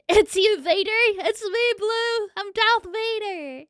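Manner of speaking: booming voice changer villain announcement. Pretend. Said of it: "I gotta swap back".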